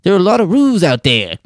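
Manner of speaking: high, hammed-up Australian accent. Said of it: "that's my Australian accent".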